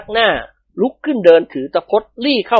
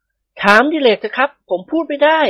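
higher, slow male character voice; evasive husband; 9 semitones higher, slower than usual. A narrator's reading. Man passes the question to Dilek, coy evasion. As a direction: pass it on in a raised, drawn-out voice.

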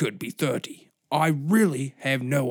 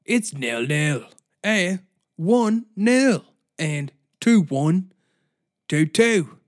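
mock British radio host. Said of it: "I'm imitating one of the hosts".

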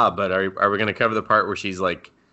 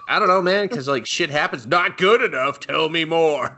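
flustered retelling; 8 semitones higher than usual. Retold or imitated. Voicing the girl, then the snake.

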